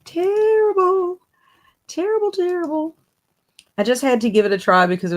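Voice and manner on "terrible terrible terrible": mock French terrible. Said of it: "If so, I'm doing terrible".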